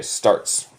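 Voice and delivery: "Starts." as an unvoiced whisper; hushed "Starts.". Shown as a demonstration. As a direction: breathe "Starts." out with no voice. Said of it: "Esto es presente".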